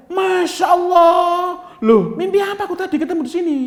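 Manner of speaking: put-on high, loud delighted yell to an old friend; joyful shout. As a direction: shout with surprise and joy. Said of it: "dia teriak".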